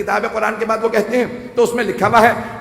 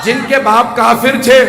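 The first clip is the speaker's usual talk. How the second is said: louder, slowed punch on the last word; emphatic preaching; 3 semitones higher, 6 dB louder than usual. Real, not acted. Preacher pressing his point to the congregation, emphatic. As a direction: drive it home to the crowd.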